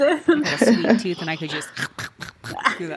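laughing. Real, not acted. Laughing reply.

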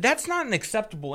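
rising irritation in a retold quote; getting mad. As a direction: push back sharply, reenacting the argument. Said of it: "now I'm getting mad".

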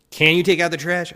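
high, loud, sing-song fake-sweet "take" rising; insincere. Shown as a demonstration. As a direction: ask with exaggerated false sweetness, voice jumping up. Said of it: "I can't do it insincerely".

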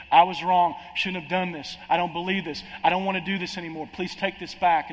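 half-acted plea of a guilty man; Judas pleading. Preacher voicing Judas as he begs the priests, mild pleading.

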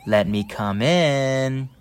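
lightly voiced wolf; big bad wolf. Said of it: "Mister Wolf went".

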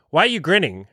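mock-puzzled, silly question; goofy, silly. Teasing a girl who grins back, goofy and playful. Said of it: "kind of this, like, goofy, silly thing".

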